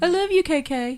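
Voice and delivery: high, lilting "I love you"; affectionate shout-out. Acted. Giving K K a shout-out on air, affectionate. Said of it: "get a shout out and say".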